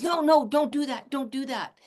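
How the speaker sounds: a quick bouncing no to a chewing puppy; mock sharp scolding; bouncy scolding. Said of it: "instead of bouncing and saying no".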